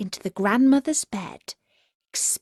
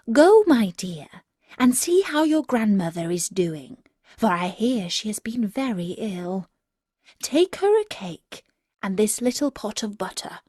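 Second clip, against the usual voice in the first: mother's voice. Acted. Mother voiced in read story.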